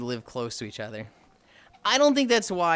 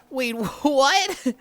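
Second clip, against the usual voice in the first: louder surprised laughing what; 10 semitones higher, 6 dB louder than usual. Real, not acted. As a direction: react with a laugh of disbelief. Surprised by chat message.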